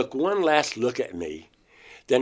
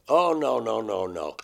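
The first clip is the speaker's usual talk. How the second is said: mock distraught pleading, slow on dear God; reliving the panic, crying no; retold crying; 3 semitones higher, 4 dB louder, slower than usual. Sobbing no at the women holding him. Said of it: "and I start crying".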